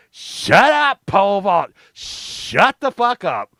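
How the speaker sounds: high, drawn-out imitation of an exasperated cop; mock stern hushing. Cops silence the laughing boy called pole vault, mock stern. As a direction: hush the kid with stretched words.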